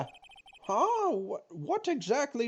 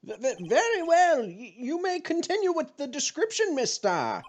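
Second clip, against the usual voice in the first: stammering judge; 5 semitones higher than usual. Acted.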